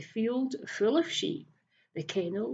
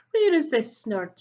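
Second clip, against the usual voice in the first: 1 eager demand; 3 semitones higher, 7 dB louder than usual. Acted. Greedy thief demanding.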